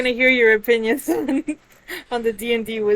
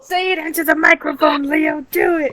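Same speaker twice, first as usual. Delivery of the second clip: loud; 4 semitones higher, 8 dB louder than usual. Real, not acted.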